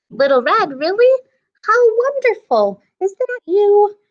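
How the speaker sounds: grandma thrilled her granddaughter came; delighted grandmother. Acted. Grandmother voiced at the door.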